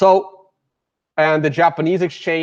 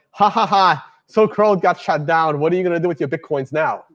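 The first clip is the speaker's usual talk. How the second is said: mock "ha, ha, ha" taunt, slightly raised, rushing at the end; imitated mocking laugh. Coworker runs up to tease about Bitcoin, imitated mocking laugh. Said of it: "runs up to me laughing".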